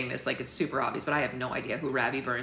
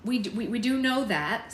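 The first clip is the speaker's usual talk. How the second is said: higher, stammering impatience; impatient; 6 semitones higher, 3 dB louder than usual. Acted. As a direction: cut in to say you already know. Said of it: "said Poppy impatiently".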